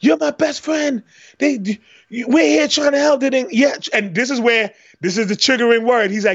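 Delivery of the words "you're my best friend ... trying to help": mock yelling, much higher pitch. Retelling a scene where a man confronts his friend, imitating someone yelling. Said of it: "so then he starts yelling at him".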